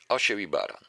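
measured, rhythmic reading of a rhymed fable; verse recitation. Acted. Lecturer reciting a Krasicki fable to the audience, measured verse reading. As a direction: recite it like a poem to a class.

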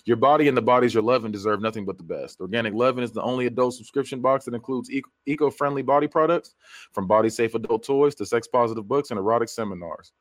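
smooth, scripted podcast ad delivery; sponsor ad read. Real, not acted. Reads a sponsor ad.

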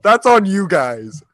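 loud mock-serious guilt trip; mock threat.

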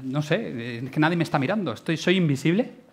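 quiet, unsure mumble of someone ignored at a party; a touch of the shy outsider, voice dropping; awkward mumble. Retold or imitated. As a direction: mumble it, lost and alone in a corner. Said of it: "tú estás así como".

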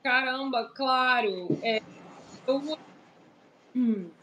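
choppy, dropping connection; voice breaking up. Real, not acted. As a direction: voice cutting out on a bad line. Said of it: "A sua voz tá falhando ainda um pouquinho".

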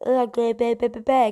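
stuck on the first sound; stammering, can't get the word out; stutter. Real, not acted. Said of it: "get your words out, Jack".

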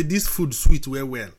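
loud, slow phrase landing on "well, well"; emphasis on well. Shown as a demonstration. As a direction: press firmly on the doubled "well". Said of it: "we put emphasis on the well".

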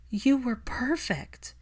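slow tender whisper; whispering comfort to a heartbroken boy. Acted. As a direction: breathe it to him, barely voiced. Consoling the boy softly.

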